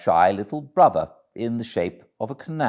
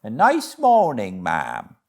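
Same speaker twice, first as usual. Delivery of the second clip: a lightly voiced, hearty barge woman, a touch higher; 3 semitones higher, 6 dB louder than usual. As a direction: hail the passer-by like a friendly bargewoman.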